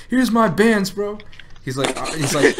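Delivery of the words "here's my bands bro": put-on higher, louder drunk brag; mock drunk bragging. Retelling the drunk guy boasting about his bands, higher mock brag. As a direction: swagger like a drunk showing off.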